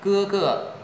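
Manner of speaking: "Cưa, cưa" high, with the second syllable light. Shown as a demonstration. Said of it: "đọc nhẹ".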